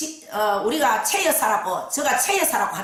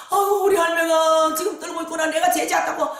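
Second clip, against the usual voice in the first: higher, lamenting cry; wailing client; 4 semitones higher than usual. Retold or imitated. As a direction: lament that grandmother trembles.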